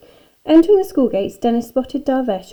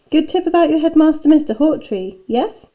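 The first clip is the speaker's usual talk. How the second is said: higher, louder, conspiratorial hint; knowing, winking; 7 semitones higher, 7 dB louder than usual. A narrator's reading. Raj hints to Dennis about the headmaster, knowingly. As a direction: share a secret tip with a wink in it. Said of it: "said Raj with a wink".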